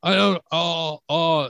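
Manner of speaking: high, flustered stammering; shocked stammer. Retold or imitated. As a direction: sputter in fake shock.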